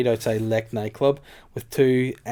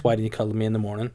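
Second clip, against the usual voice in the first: Essex voice; faster than usual. Shown as a demonstration. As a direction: Essex accent, a little rushed. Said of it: "like wee Essex voice".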